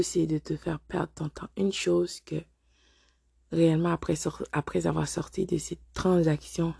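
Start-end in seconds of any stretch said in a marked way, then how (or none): 3.5-6.7 rough, hoarse voice from flu. Real, not acted. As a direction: speak through a sore, hoarse throat. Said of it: "excusez ma voix rauque".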